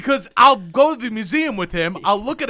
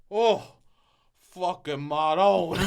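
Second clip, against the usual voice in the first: awed dad impression; much slower than usual. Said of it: "He goes".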